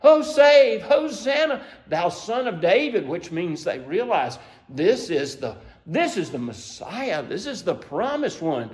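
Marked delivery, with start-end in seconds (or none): 0.0-3.1 loud, high cry that settles by the end. Retold or imitated. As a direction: lift the first words high, then let the praise fall. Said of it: "They're crying out".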